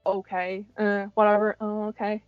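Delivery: soft, noncommittal shrug of a reply; indifferent. Retold or imitated. Co-host recalling first hearing of the channel, indifferent. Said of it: "I was more like".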